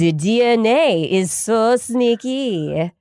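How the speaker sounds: mock French accent, drawn out; bad French accent. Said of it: "that was my bad French accent".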